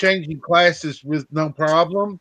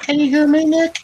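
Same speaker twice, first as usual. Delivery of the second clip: calling out; 11 semitones higher than usual. Real, not acted. Repeating call check to friend.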